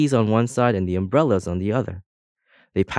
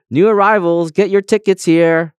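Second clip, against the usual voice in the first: higher, louder official call; 9 semitones higher, 7 dB louder than usual. A narrator's reading. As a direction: call out to the arriving crowd. Official calling to new arrivals.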